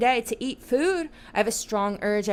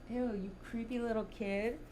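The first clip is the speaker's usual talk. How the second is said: disgusted; 11 dB quieter than usual. Real, not acted. Disgusted by kid voice.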